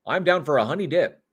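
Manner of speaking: a jokey, badly done Canadian accent; terrible Canadian accent. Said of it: "I do terrible Canadian".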